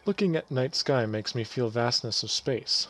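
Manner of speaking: put-on villager with a light Russian accent; lightly put-on Russian accent. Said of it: "Maybe we'll do a Russian accent".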